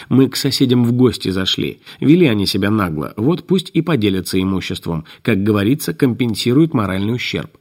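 невнятно бубнить сквозь маску; глухое бормотание из-под респиратора; бубнит через респиратор. Acted. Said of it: "неприятно хохотнул и пробубнил". (бубнёж через респиратор)

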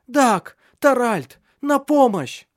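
high, loud cry for help; terrified shout. A narrator's reading. Mother screaming to the men for help, terrified. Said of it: "в ужасе прокричала Лив".

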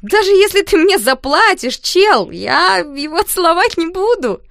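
put-on girl denying to the teasing boys, flustered; flustered loud denial. A narrator's reading. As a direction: overdo it, too loud.

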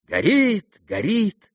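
high, urgent cry of alarm; crowd shouting. Acted. Everyone at the fireplace, crying out in alarm. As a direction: call out the fire in alarm. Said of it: "кричали все в один голос".

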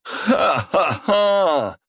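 slow high gloating laugh; mocking villain's laughter. A narrator's reading. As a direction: roll out a long evil laugh. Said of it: "залился смехом Константин".

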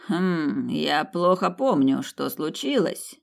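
slow, musing, drawn-out words; thoughtful. Acted. Revived ruler tries to recall what happened, slow and pensive. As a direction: feel for the memory as you speak. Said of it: "задумчиво проговорил Великий".

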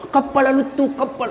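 soft, imitated running chant; child chasing plane. Preacher as village boy chasing a plane, imitated calling.

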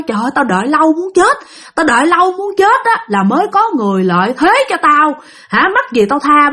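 lightly voiced she-demon. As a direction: lightly imitate an impatient, unrelenting she-demon. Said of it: "con quỷ cái này nó không tha". (nhại nhẹ giọng quỷ cái không chịu tha, cao giọng)

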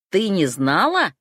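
slow, loud menacing bark. A narrator's reading. Vitya raising his hand at the heroine, barking slowly. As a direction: draw it out as a threat. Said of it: "рявкнул он".

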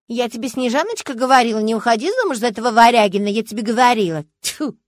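сварливо передразнивая тёщу, громче; передразнить причитающую тёщу; ворчливая тёща. Retold or imitated. (Варягин передразнивает тёщу, которая корит дочь за брак, сварливо)

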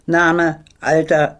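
loud, curt questions barked out. Retold or imitated. Fat officer shouting questions at the girl. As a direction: snap out name and age like an interrogation. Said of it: "brüllt mich an".

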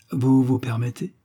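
a touch of offended loftiness; haughty exclamation. Acted. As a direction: look down on the conductor, lightly. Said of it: "s'écria l'homme avec hauteur".

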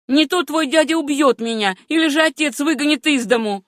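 high, urgent imploring voice; pleading. A narrator's reading. Sam begs Susanna to deny it, high pleading. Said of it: "умоляющим тоном произнёс он".

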